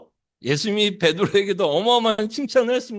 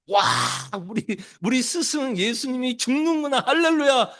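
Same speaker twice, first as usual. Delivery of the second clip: higher, ironic cheering over bad news; a preacher mocking a disciple's gleeful hallelujah; mock joyful praise; 4 semitones higher than usual. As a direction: sarcastically celebrate like a delighted disciple. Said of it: "막 찬송하고 찬양했을까요?".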